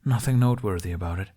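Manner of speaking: quick, put-on brightness; forced cheer. Jack hides his feelings from Hiccup, quick forced smile. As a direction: brush it off fast with a smile. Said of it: "Jack put on a smile".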